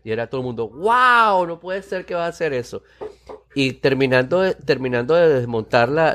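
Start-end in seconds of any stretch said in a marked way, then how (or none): 0.7-2.8 higher-pitched, drawn-out wow of disbelief; imitated amazement. Everyone hearing of a newspaper going online, imitated amazement. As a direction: voice a crowd's astonished reaction. Crowd reacting to bold announcement.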